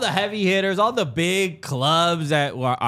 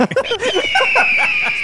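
pelican screech; 4 dB louder than usual. Retold or imitated. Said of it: "accurate Pelican".

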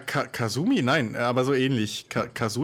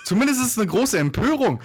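laughing outrage; 7 semitones higher, 3 dB louder than usual. Real, not acted. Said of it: "Du übersteuerst".

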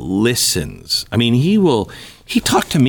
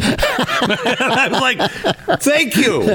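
laughing; 12 semitones higher, much slower than usual. Real, not acted. Laughing at Trump's admission.

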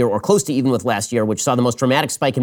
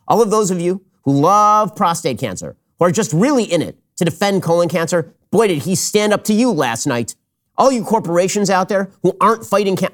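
raised, hammed-up praise, dripping irony; mock triumphant sarcasm; 4 semitones higher than usual. Host mocking the president's cancer pledge, with sarcastic fake awe. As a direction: cheer him on with heavy sarcasm.

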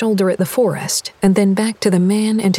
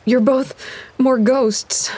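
higher, wheezed on short breath; wheezing; 5 semitones higher, slower than usual. Acted. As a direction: gasp it out in shock. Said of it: "Lydia wheezed".

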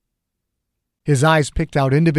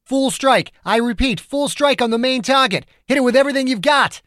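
shouted radio order; 11 semitones higher than usual. A narrator's reading. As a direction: hammer the strike order home.

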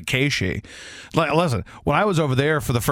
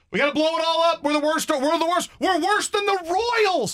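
higher, mock-panicked internet fan wailing; whiny fan meltdown; 12 semitones higher than usual. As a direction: parody a fan who thinks it's all over. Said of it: "It's either".

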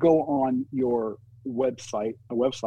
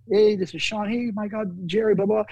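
high, eager fanboy greeting; a higher, gushing mock fan voice; 8 semitones higher, 3 dB louder than usual. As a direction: imitate an overeager fan meeting his idol. Imitating Sean gushing at Jerry.

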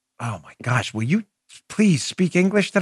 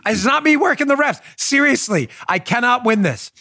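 mock earnest denial; 5 semitones higher than usual. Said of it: "You go".

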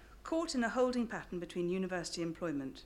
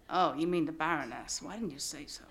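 put-on American doorman accent; 4 semitones lower than usual. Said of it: "Sorry about my accent".

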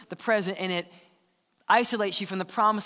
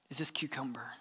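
whispered, much softer; 7 semitones lower, 12 dB quieter than usual. Acted. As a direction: breathe the question like a secret. Whispered question to God.

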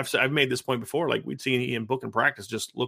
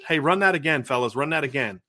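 lightly acted practice coach, raised voice; a hint of a coach's holler; coach calling out; 3 semitones higher, 4 dB louder than usual. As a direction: call the players back for a redo. Acts coach restarting a practice play.

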